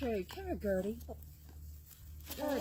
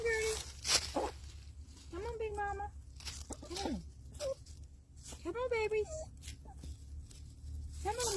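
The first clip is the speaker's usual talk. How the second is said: sing-song calling; 9 semitones higher than usual. Real, not acted. Calling hens repeatedly.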